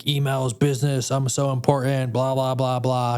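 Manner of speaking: hint of a self-important exec brushing things off; mock self-important. Mocking the busy version of himself he might have been, pompous. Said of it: "I could have been like".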